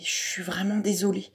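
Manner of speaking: unvoiced whispered apology; breathless hushed sorry. A narrator's reading. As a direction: whisper it so the teacher won't hear. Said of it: "chuchote Hippolyte".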